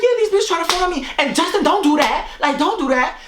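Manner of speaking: mock rant. Imitating her rant, fast.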